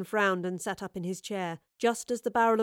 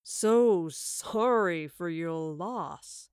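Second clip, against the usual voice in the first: stifling a laugh; 2 semitones lower, much slower than usual. A narrator's reading. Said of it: "stifling another laugh".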